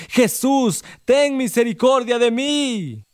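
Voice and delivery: high, slow, drawn-out plea; desperate cry. A narrator's reading. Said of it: "él más le gritaba".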